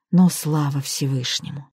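ordinary delivery

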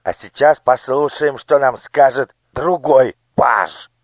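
high, commanding minister's voice; a cold lord issuing orders to his daughter; scheming minister. Acted. Minister turns to next page. (властный голос министра)

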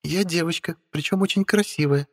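put-on calm, high, self-assured girl voice; unruffled witch. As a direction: state it coolly, totally unbothered. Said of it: "невозмутимо заявил Стелла". (невозмутимая ведьма)

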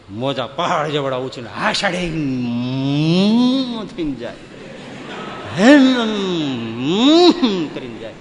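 slow, drawn-out wave roar rising loud; roaring sea waves. Acted. Storyteller mimicking the sea's waves, a slow swelling roar. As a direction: stretch the words like crashing surf.

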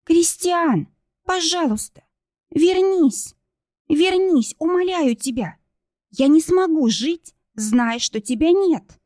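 high, sobbing begging, slowing at end; sobbing pleas. A narrator's reading. Kristina sobs and begs Christian to come back. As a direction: beg him through tears.

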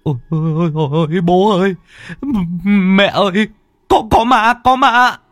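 high, stammering panic rising to a loud cry; terrified scream. Acted. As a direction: scream for mum and dad, terrified of a ghost. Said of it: "Phùng hét toáng lên".

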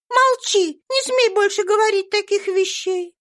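put-on a small girl ordering the maid to be silent; fierce little girl. A narrator's reading. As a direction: shut her up with flashing eyes. Eva silences Rosa.

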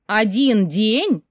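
slow, incredulous "Один день?" with a drawn-out falling "день"; skeptical. Acted. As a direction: repeat it in disbelief, slowly. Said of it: "стало скептическим".

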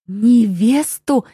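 slow, squeaky falsetto; falsetto squeak. A narrator's reading. Father of the family squeaks in falsetto at the word bride. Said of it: "пискнул фальцетом отец семейства".

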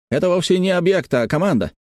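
high-pitched, excited realisation; exclaiming. A narrator's reading. Wu tells Arnold what he has found, exclaiming. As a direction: exclaim the discovery without raising volume. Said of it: "воскликнул Ву".

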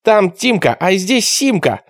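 high-pitched, drawn-out holler; barked out. A narrator's reading. Boy bursting out of the bushes at raiders, barked. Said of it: "гаркнул".

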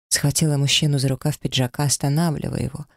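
ordinary delivery, nothing marked

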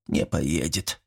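quiet and low, full of sad resignation; longing, sad. A narrator's reading. Old man giving up on the hospital, quiet and sad. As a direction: let it sink, soft and hopeless. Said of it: "с тоской в голосе повторил Митрич".

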